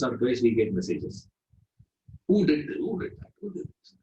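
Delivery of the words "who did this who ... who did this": indignant complaint. Retold or imitated. Angry residents complaining about lift.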